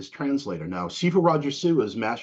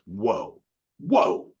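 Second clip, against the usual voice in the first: amazed. Retold or imitated. Student watching the kick, amazed. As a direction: build the second whoa up in mock awe. Retold awe at fighting display.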